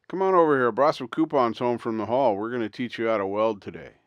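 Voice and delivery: hollering him over to come weld; calling out. Retold or imitated.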